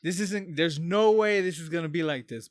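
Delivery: fired-up imagined threat; heated challenge. Acted. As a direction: square up to someone, voice lifted. Imagined street confrontation with abusive customer.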